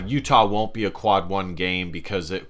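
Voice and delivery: ordinary talk, nothing marked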